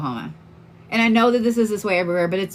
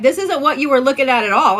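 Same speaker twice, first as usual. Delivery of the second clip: higher, louder incredulous friend; best friend reacting to the listing, incredulous; friend's reaction; 7 semitones higher, 6 dB louder than usual. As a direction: voice the stunned bestie. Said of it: "She was like".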